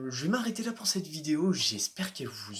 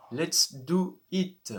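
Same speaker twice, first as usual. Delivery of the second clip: put-on slow, drawn-out English-accented line; playful mock English accent; 2 semitones higher, much slower than usual. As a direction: say it slowly like an Englishman. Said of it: "j'ai voulu prendre un accent anglais".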